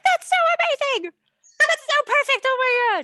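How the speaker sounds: high, loud mock-gushing squeal; over-the-top delighted reaction, very high pitch; excited relatives. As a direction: imitate thrilled family cheering at the news. Voicing family's excited reaction.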